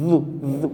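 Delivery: "জু" with a very soft first consonant; soft letter sound. Shown as a demonstration. Teacher showing students how soft it is, soft pronunciation of "জু". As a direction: say each "জু" gently, the consonant kept soft. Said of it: "নরম হবে, একদম নরম".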